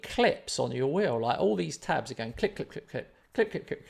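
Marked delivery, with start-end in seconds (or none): 2.6-3.1 whispered clicking. Retold or imitated. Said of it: "making this noise". 3.3-3.9 high clicking. Retold or imitated. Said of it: "making this noise".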